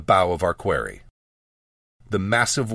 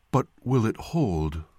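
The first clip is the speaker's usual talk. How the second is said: slow, lightly voiced young man; young male voice; 3 dB quieter than usual. A narrator's reading. Young man questions the healer, slow male voice. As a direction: ask slowly, a hint of another speaker. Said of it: "this perhaps a young male".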